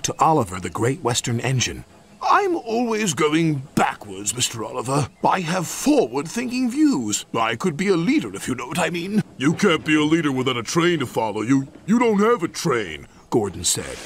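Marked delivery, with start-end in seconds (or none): 2.2-9.2 higher-pitched, eager little brake van; plaintive Toad. Acted. Toad confides his wish to Oliver, plaintive and higher. 9.4-13.1 lightly voiced scornful engine; dismissive engine. Engine rebuffs Toad's wish to lead, lightly dismissive.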